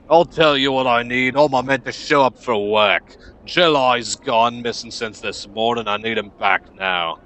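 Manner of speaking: loud, irritated boss in a rough character voice; gruff, demanding foreman. Acted. Foreman tells stranger about missing worker, gruff and irritated. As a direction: lay down what you need, impatiently.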